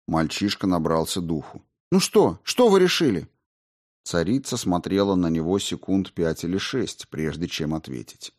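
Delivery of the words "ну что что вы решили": high, loud frightened question; anxious demand. A narrator's reading. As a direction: push for the answer, scared of it. Boy demands the queen's decision.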